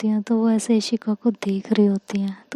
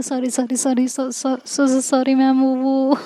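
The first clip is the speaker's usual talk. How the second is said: flustered stuttering sorry, tripping on सॉ-; stammered apology. Acted. Schoolgirls apologising to their seniors, stammering flustered. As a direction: stutter the sorry, caught out and embarrassed.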